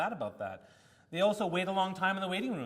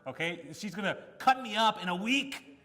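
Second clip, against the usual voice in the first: retold outburst; 3 semitones higher, 5 dB louder than usual. Patient snapping at the resident, loud indignant retelling. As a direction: replay the blow-up at the resident, louder. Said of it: "Oh man, I lost it".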